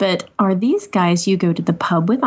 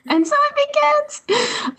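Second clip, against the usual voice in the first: ominous quote; slower than usual. Pretend. Ominous movie-line quote.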